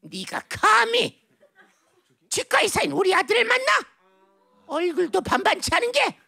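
high-pitched soap-opera confrontation; melodrama mother. Acted. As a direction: confront her like an outraged mother in a trashy drama. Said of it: "무슨 막장 드라마의 한 장면처럼".

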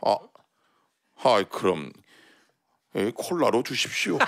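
low, soft and timid; meek old man. Retold or imitated. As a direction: give in like a scolded kid. Old man gives in meekly.

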